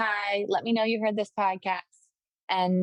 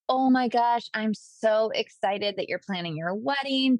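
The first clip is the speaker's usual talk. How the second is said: excited; 3 semitones higher, slower than usual. Shown as a demonstration. Coach models a voice memo to a newly engaged client, excited. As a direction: gush slowly to show how excitement sounds. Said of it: "let them hear your excitement".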